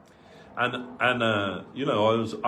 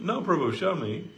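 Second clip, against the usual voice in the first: higher, coaxing elder asking to see the fax; playful insisting guru; 8 semitones higher than usual. Retold or imitated. Guru coaxing his disciple to hand over the fax, playful and higher. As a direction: press him gently, half teasing.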